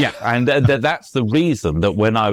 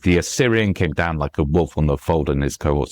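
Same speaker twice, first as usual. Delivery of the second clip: sped-up verse; 5 semitones lower than usual. Shown as a demonstration. Author gives another verse example, sped up. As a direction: rattle the verse along on its stresses. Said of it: "you speed up for those ones".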